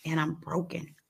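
soft, hushed and heartbroken; broken confession. Retold or imitated. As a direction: murmur it like you're at the very end. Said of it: "I'm like".

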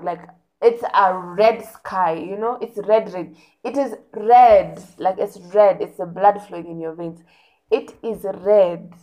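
insisting it is red red red; emphatic red. Real, not acted. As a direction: hammer the word red home. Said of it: "stressing red flag".

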